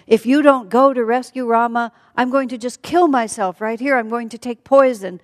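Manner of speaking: high, loud frantic ultimatum; hysterical threats. Acted. Sita to Lakshman to rescue Rama, hysterical threats. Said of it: "Hysterical female threats".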